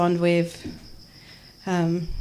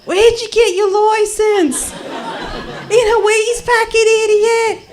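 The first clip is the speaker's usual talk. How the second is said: acted abusive yell; 12 semitones higher, slower than usual. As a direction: yell it like an angry passer-by. Acted abuse yelled at blind narrator.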